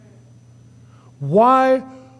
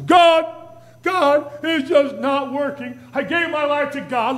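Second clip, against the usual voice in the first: high, hammed-up sulking complaint to God; mock temper tantrum; 5 semitones higher than usual. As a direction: pout and whine at God. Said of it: "have a little temper tantrum before God".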